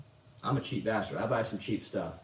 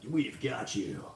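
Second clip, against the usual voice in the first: lightly voiced cheesy announcer; a hint of stupid radio-promo voice; mock radio announcer; slower than usual. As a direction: toss off a mock ad slogan. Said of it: "that stupid radio announcer voice".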